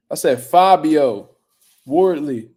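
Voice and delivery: Fabio Wardley spelled out slowly and firmly; slow down and press the name Fabio Wardley; clarifying stress. Real, not acted. Correcting chat which Fabio he meant, slow and firm. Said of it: "What you think I was saying?".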